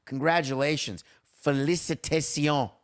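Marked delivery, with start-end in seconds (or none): 1.5-2.7 French. Pretend. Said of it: "I don't know why I just spoke French".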